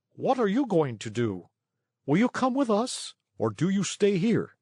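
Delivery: high sweet coaxing; wheedling. A narrator's reading. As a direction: tempt him politely. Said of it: "turning politely to Pinocchio".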